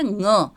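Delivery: ङ said slowly as a velar nasal from the throat, not like ण; teacher stretching out ङ from the back of the throat and nose; careful ङ demo. Shown as a demonstration. Teacher showing pupils the right sound, drawn-out velar nasal. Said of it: "ध्यान से बोलना बच्चों, ये ण नहीं है".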